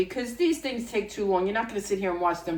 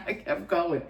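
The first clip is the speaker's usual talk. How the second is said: laughing. Real, not acted. Laughing at her burnt pan.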